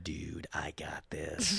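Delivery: low, hushed cocky undertone; confident aside. Retold or imitated. Telling his manager he can handle it, hushed confidence. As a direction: say it low and slow, under the breath.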